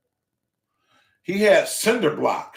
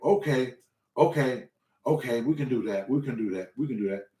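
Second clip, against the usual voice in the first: softer, lower placating repeats; calm agreement; 3 semitones lower, 5 dB quieter than usual. Retold or imitated. Trainer agreeing to start the beginner lighter, calm. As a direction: settle it down, humouring him.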